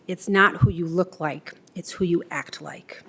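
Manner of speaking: low, understated quiet remark; retold quiet aside. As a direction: quote a father's quiet word, gently hushed. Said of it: "he'd lean over and quietly say".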